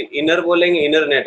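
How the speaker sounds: "इनर नेट" with a light r and no t; American pronunciation. Shown as a demonstration. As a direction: show इनर नेट with barely stressed r. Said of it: "र में भी बहुत कम stress". (अमेरिकी ढंग से इनर नेट, हल्का र)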